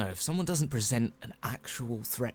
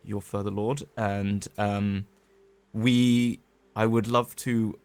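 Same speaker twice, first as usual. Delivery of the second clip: overly polite, louder courtly flattery; mock courtly; 5 dB louder than usual. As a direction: flatter the lord with a grand bow. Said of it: "What you doing, Kai?".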